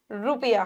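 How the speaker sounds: रुपया low, with a short u; short quick vowel. Shown as a demonstration. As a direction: pass quickly over the u in रुपया. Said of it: "हम जल्दी बोल जाते हैं". (रुपया में उ छोटा, जल्दी बोलें)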